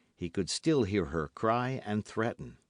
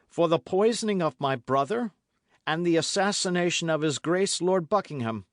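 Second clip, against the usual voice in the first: forceful pardon; 7 semitones higher, 5 dB louder than usual. A narrator's reading. De Winter pardons, louder.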